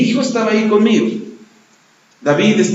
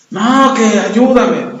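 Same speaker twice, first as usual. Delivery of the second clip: slow, insistent plea; mild mock plea; pleading drunk; 4 semitones higher, much slower than usual. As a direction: drag out the begging.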